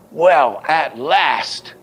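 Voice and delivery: "Well" punched high, "at last" held up; accented reading. Shown as a demonstration. Teacher offering another option, strong stress on every accent. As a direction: hit "Well", then lift "at" and "last". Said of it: "two head accents".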